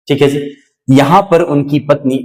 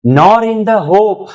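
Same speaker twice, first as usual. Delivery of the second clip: slow recitation; 8 semitones higher, much slower than usual. Shown as a demonstration. Teacher recites the poem line.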